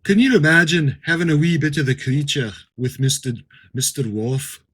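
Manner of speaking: hammed-up bad Irish accent; terrible Irish accent. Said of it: "a terrible impersonation by trying to do his accent".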